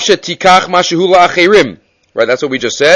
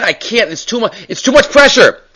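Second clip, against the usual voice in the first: higher, rising mock plea of a man at breaking point; retold crying; 6 semitones higher than usual. Shochet pleading with his rabbi under too much pressure, retold distress. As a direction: imitate someone overwhelmed, pitch climbing to the last word. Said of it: "he's crying to Rav Yisrael".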